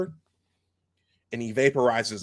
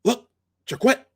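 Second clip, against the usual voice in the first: high, louder put-on gunner voice; Klingon gunner; 13 semitones higher, 4 dB louder than usual. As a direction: answer like a wary gunner. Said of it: "and he says".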